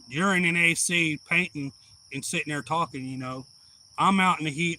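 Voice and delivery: loud, fed-up complaint about the heat; heated rant. Retold or imitated. Sweaty worker rants loudly at boss about the heat. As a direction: vent the anger loudly at him.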